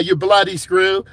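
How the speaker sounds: hammed-up British accent jab; mock British accent. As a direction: drag it out in a jokey British accent. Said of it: "that's my U K impression".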